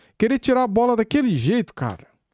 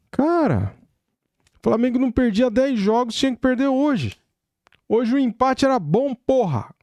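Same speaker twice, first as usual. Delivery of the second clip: shouting; 5 semitones higher than usual. Real, not acted. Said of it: "Hoje eu tô igual aqueles malucos aí do YouTube aí, gritando".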